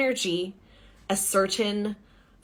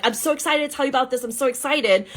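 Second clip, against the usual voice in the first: higher and fast, gushing excited; breathless fake enthusiasm; mock excitable; 5 semitones higher, much faster than usual. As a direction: rattle it off like a hyped-up pitch. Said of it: "excitable energy of, like".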